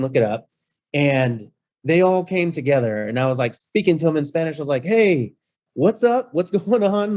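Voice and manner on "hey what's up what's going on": put-on bright, high hello to old pals; cheery greeting. Host greeting the locksmiths in Spanish, high and cheery. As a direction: greet them like buddies you're thrilled to see.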